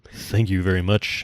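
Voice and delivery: low gravelly "Thank you very much". Acted. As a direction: rasp it out in a gravelly voice. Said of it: "I'll use my gravelly voice".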